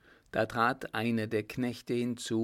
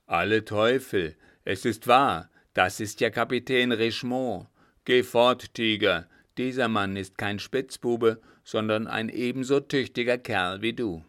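astonished loud command; 6 dB louder than usual. Acted. Coachman surprised, commands dog.

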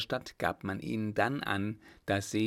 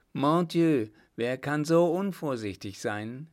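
startled; 5 semitones higher, 5 dB louder than usual. A narrator's reading. Emperor struck by door.

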